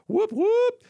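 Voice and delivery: high sarcastic whoop whoop; mock cheer. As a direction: cheer it with fake glee.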